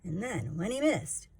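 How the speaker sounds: put-on lively sing-song reading to a child; rhyming story narration. A narrator's reading. Parent reading a picture book to a child, sing-song. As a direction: read the rhymes to a little one, bouncing along.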